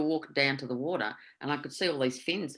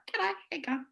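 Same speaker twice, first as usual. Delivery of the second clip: breezy greeting; 12 semitones higher, 6 dB quieter than usual. Retold or imitated. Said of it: "I just walked straight up".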